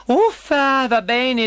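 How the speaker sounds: high, loud huff of surrender; exasperated exclamation. A narrator's reading. Princess giving in to begging frog, exasperated exclamation. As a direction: give in with a grumble. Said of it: "esclamò la principessa".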